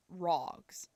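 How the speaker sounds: ROGS with a rounded British-style aw; British-style ROGS, vowel like aw; British-sounding rogs. Shown as a demonstration. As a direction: try ROGS in a British accent, falling tone. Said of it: "almost sounds like a British accent".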